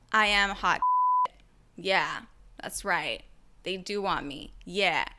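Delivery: low, self-satisfied voice; mock smugness. Avoidant person enjoying being chased, mock smugness. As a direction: savour it slowly and low.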